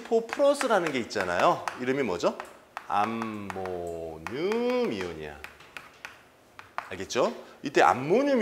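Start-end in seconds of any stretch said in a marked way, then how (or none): 2.9-5.4 very slow, low and soft; drawn-out answer. Real, not acted. Teacher answering their own question on an ion's name, drawn out slowly. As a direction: stretch out each syllable of the name.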